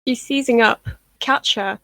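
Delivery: urgent call. Acted. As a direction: call for help as the girl convulses. Healer calls out during a seizure.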